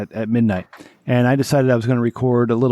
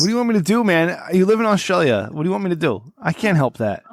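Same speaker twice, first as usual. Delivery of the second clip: exasperated; 5 semitones higher than usual. Retold or imitated. Answering the Australian fan, exasperated.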